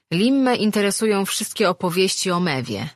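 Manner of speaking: a hint of a lively tavern-goer; lightly voiced sociable Marin. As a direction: explain eagerly to an old friend. Voices Marin introducing Limma.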